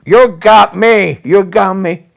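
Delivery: retold boss's outburst. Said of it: "He said".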